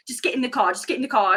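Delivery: imitated British driver; British accent. Retelling the poor driver ushering her in, British accent. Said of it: "I'm loving your British accent".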